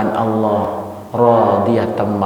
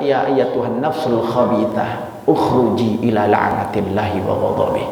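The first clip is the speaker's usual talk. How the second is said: harsh call. Acted. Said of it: "tapi dengan kalimat yang berbeda".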